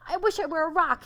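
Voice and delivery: high, loud frightened wish; panicked cry. Acted. Donkey facing a hungry lion, panicked cry. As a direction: blurt it out in panic.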